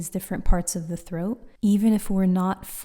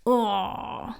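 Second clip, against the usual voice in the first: punched oh; 3 semitones higher than usual. Shown as a demonstration. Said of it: "and you go".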